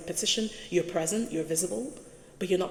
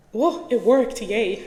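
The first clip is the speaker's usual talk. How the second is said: excited whoa; 4 semitones higher, 9 dB louder, slower than usual. Real, not acted. Slide finally advances.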